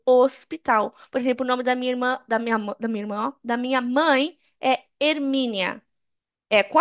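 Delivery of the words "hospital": "Hospital" in Portuguese with no H sound; silent H. Shown as a demonstration. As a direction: start "Hospital" directly on the O. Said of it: "Esse H fica mudo".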